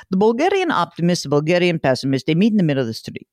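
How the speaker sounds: a hint of a Bulgarian accent, imitating a friend; lightly put-on Bulgarian accent, fast on the last line. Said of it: "I'll do it with his little accent".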